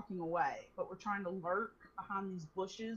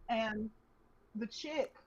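usual speaking voice

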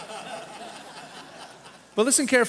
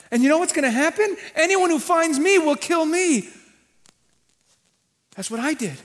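despairing Cain; 5 semitones higher, 3 dB louder, faster than usual. Acted. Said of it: "Does this sound like evil Cain?".

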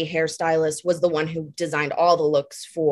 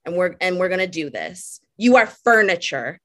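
lightly put-on French accent, grand and dismissive; 3 semitones higher than usual. Stylist scolding a model in a French accent. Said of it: "in a French accent".

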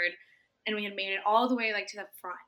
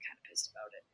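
deadpan; 11 semitones lower, 12 dB quieter, much faster than usual. Pretend. Mock complaint, very low.

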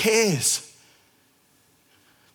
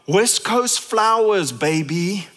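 cocky boast; slower than usual. Retold or imitated. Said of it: "Jesus would just eyeball us and go".

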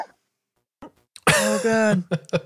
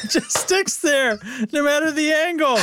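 laughing; 3 semitones higher than usual. Real, not acted. Laughing at cheese cat gif.

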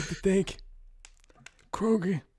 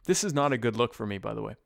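Brando voice; 4 semitones lower, 4 dB louder than usual. Acted. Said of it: "doing that voice".

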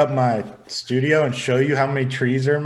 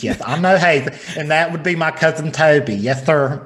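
lightly voiced feminine Southern man accent. Shown as a demonstration. Showing off his own character, lightly feminine Southern man accent. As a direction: give it a hint of effeminate Southern man. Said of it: "that's my feminine Southern man accent".

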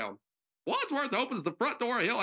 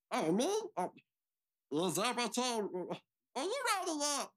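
attempted proper English accent, hesitant; 4 dB quieter, faster than usual. Butler speaks to the maid, proper English accent. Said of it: "speaks to the maid in proper English accent".

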